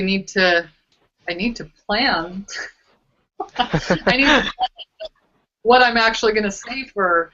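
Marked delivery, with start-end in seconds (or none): 3.4-4.7 real laugh running through the words. Real, not acted. Admitting a need to plan before next week, laughing.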